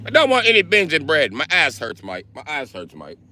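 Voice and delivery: a sore Brit moaning to Mike; lightly voiced whiny Brit. Brit character whining.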